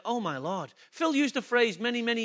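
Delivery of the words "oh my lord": low, soft awed exclamation; understated, hushed reverence; hushed awe. Retold or imitated. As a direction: breathe it low in quiet wonder, as if quoting. Awed reaction on seeing Christ.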